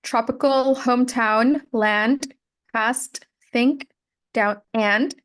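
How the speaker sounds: word list with each ending clearly sounded, as in land, past; enunciated final consonants. Shown as a demonstration. Teacher modelling final consonants, land and past fully enunciated. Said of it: "enunciate more on".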